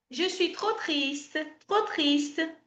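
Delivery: je suis trop triste slowly and softly; slow soft French. Shown as a demonstration. Teacher reading a sad line for students.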